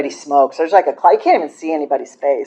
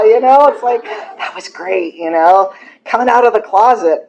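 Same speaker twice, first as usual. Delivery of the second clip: gleeful; 7 semitones higher, 5 dB louder than usual. Retold or imitated. Joyful trip into the closet.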